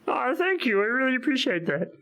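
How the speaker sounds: exaggerated touched voice; overly sweet thank you; mock sincere. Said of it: "I'm gonna be me because this feels insincere".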